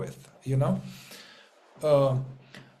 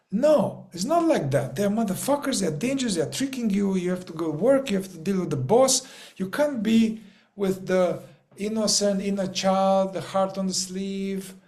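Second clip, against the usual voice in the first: emphatic insistence; 4 semitones higher than usual. Real, not acted. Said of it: "emphatic rebuttal after parody".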